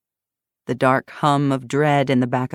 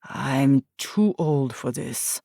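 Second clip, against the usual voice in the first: weary complaint; 2 semitones lower, much slower than usual. Acted. Antoine groans kneeling down.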